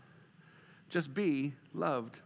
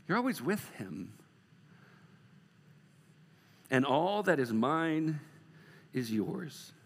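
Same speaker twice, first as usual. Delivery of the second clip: tender father; slower than usual. Pretend. Father reassuring his older son, slow and tender. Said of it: "can you imagine Jesus just getting into going".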